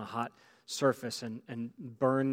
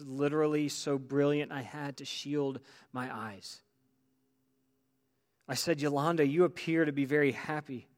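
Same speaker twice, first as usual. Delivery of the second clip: fervent storytelling from the pulpit; impassioned testimony reading; 2 semitones higher, 4 dB louder than usual. Acted. Preacher retells a priest's vision to church, fervently. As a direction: read it out with mounting wonder.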